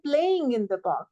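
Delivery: "playing" picked out as the focus word; stress on PLAYING. Shown as a demonstration. Teacher showing he is playing, not working, stress on "playing". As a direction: lean on "playing", lighter on "in the park". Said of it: "प्लेइंग को stress कर दिया".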